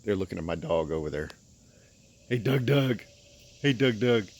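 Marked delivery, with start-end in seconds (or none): 2.3-4.3 calling out. Real, not acted. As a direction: call the dog's name, louder. Calling the dog over there.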